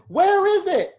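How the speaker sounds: high, loud "where is it?"; a hammed-up baffled crowd member asking where; mock confused question. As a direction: call out the question like a lost attendee. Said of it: "I hear the question".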